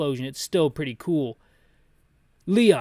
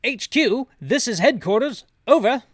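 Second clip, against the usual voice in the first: higher, louder British radio officer; 7 semitones higher, 6 dB louder than usual. Acted. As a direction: put on a British accent over the radio. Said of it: "Gotta get my British voice back up".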